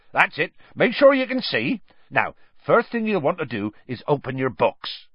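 lightly voiced big teacher; cheerful giant giving orders; hearty Hagrid. A narrator's reading.

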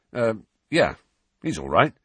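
gruff. Acted. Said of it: "said Ron gruffly".

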